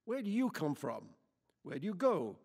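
loud, high, building hostile rant; angry tirade. A narrator's reading. Lady interrogates Quichotte about where he's from, furious. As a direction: pile accusations on him.

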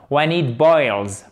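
slow, deliberate When it boils; slow model phrase. Shown as a demonstration. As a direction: say it slowly as the correct form. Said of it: "pas when it is boiling". (modèle lent et articulé)

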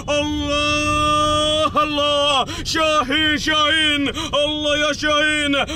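drawn-out cheering call; excited race call. Real, not acted. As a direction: cheer the camel home, stretching the words. Race finish, calling the camel. (نداء حماسي ممدود)

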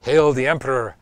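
half-hearted acclaim for an emperor; mild quoted shout. Retold or imitated. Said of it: "instead of shouting".

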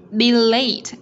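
LATE with the T popped at the end; released final T. Shown as a demonstration. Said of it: "bật ending sound T".

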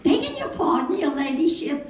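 high, deferential London twit; London accent. Retold or imitated. Twit addressing the duchess, high London accent. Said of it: "two twits what are sitting".

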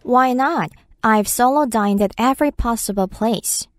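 slow, careful English read; slow demo read; slow chunk read. Shown as a demonstration. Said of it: "repeats sentence in chunks".

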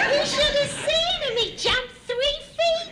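giggling while telling the tickling story; laughing. Real, not acted. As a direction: talk through giggles, pitch up. Laughing through the memory.

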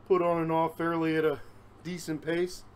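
normal talking voice

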